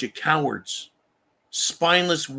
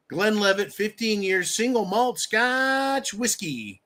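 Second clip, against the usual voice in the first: higher, drawn-out announcer flourish; showy product announcement; 5 semitones higher, slower than usual. Acted. Host presenting the scotch the donation earned him, showy announcer. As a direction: stretch out the name like a prize. Savours naming his reward drink.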